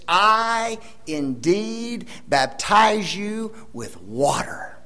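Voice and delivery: whisper. Acted. Quoting John, hushed aside.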